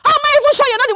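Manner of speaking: shouting back in his face; angry shout. Acted. Wife shouting at the man who insults her husband. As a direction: hurl it at him, defending her husband.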